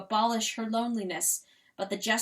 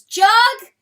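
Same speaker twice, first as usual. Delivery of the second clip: bird cry; 13 semitones higher, 17 dB louder than usual. Acted. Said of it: "what she said was".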